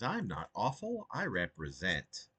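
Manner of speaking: slow, deliberate poetry reading; reading his own poem aloud. Acted. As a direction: read each line with weight, unhurried.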